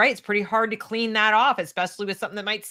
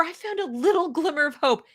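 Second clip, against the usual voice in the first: mocking echo; 4 semitones higher than usual.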